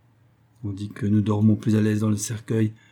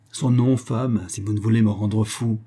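urgent. Acted. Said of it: "demande vivement Raymond".

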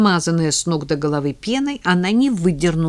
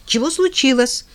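put-on loud, higher kids' shout; shouting in chorus; 8 semitones higher, 4 dB louder than usual. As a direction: yell it out together. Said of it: "заорали они хором". (громкий детский крик хором)

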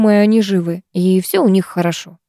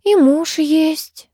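very slow, higher sighed remark; sighing; 9 semitones higher, much slower than usual. A narrator's reading. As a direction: draw it out on a wistful sigh. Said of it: "вздохнула Нестерова".

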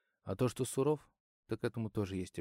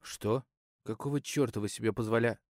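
angry outburst, louder, breaks off; cut off mid word; 5 dB louder than usual. Acted. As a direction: shout it, then stop dead mid word. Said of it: "разговор оборвался на полуслове".

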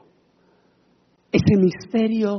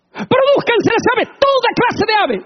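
booming high divine command; God commanding; 5 dB louder than usual. Acted. God calling creation into being, booming command. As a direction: thunder it out as the Creator. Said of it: "con su palabra".

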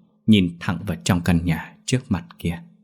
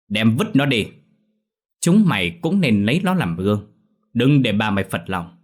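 louder, sharp-tongued command; spiteful order; 4 dB louder than usual. Acted. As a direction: warn the servants haughtily. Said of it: "chua ngoa ra lệnh cho đám gia đình".

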